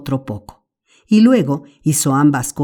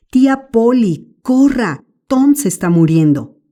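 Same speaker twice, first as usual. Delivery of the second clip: higher, louder, urgent call for the aunt; shouting for help; 8 semitones higher, 5 dB louder than usual. Acted. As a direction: yell downstairs that Tom is dying. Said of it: "Sid voló escaleras abajo y gritó". (Sid grita a la tía Polly, alarmado)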